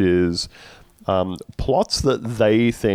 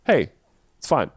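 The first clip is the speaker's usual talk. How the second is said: mock Middle Eastern accent; 5 semitones higher than usual. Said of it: "the reason Andrew did that accent".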